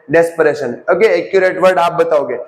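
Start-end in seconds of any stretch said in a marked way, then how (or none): 0.1-0.8 "डेस्परेशन" said alone as a firm falling answer; answering own quiz. Shown as a demonstration. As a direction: give "डेस्परेशन" as the drilled answer. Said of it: "क्या बोलते हैं?". ("डेस्परेशन" पर ज़ोर देकर उत्तर)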